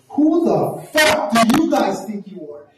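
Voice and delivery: high-pitched, outraged challenge; acted-out combative rant, going full tilt; full confrontation mode. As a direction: throw the challenge back, pitched right up. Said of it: "this is when I go full".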